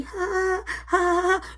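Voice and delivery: drawn-out, airy fake ha-ha; imitated laughter. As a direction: imitate mom laughing on the phone. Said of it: "laughing and shit".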